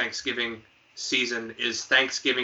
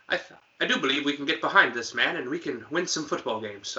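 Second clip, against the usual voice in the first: a light British accent, lightly put on; slight British accent; 2 semitones higher than usual. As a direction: playfully give him a hint of British English. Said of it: "I gave him a slight British accent".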